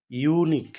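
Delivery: ইউনিক with a long opening ইউ; pronunciation demo. Shown as a demonstration. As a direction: lean on the "yoo" that starts ইউনিক. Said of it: "উচ্চারণটা ইউনিক". (ইউনিক-এর ইউ টেনে উচ্চারণ)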